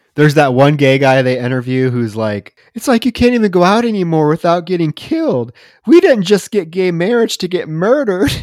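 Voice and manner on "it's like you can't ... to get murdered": play-acted whiny, near-tearful voice, pitched up. Retelling what an interviewed man said on the news: imitating a whiny near-tearful man.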